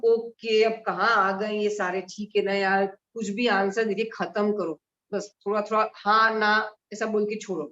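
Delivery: curt, dismissive brush-off; mildly impatient, wanting it over with; rude. Shown as a demonstration. Teacher demonstrating a rude reply to someone, mildly dismissive. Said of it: "आपसे बहुत rudely बात कर रही हूँ".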